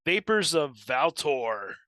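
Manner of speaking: slow, dramatic announcer read; movie trailer voice. Shown as a demonstration. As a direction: boom it out like an epic trailer. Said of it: "Gotta do it with the movie trailer voice".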